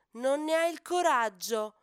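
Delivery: loud, high taunting dare; sudden pique. Acted. Hippo calf daring the elephant, irritated. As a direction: needle him, irritated. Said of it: "risponde Ippo con stizza repentina".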